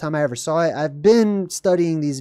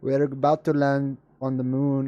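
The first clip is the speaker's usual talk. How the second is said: mock cheer; slower than usual. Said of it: "Look at this guy".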